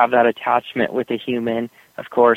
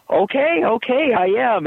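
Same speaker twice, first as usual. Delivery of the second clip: sheepish surrender; 11 semitones higher than usual. Retold or imitated. Friend giving in.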